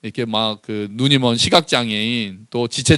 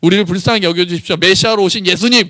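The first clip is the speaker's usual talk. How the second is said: acted pleading call, raised pitch; crying out; 5 semitones higher than usual. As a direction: imitate beggars appealing to Jesus for mercy, not truly shouting. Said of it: "그렇게 막 외친다는 거예요". (높인 목소리로 간청하듯 외치는 흉내)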